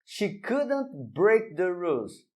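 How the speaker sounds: she couldn't break the rules said slowly, each word clear; careful slow English model sentence; slow model reading. Shown as a demonstration. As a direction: read it slowly like a teacher setting an example. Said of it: "Mais um exemplo".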